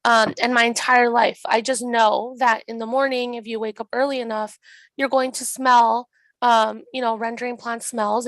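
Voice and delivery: lost voice, a bit rough; hoarse. Real, not acted. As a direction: speak with a worn-out voice. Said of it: "sorry for my voice, I, I lost it".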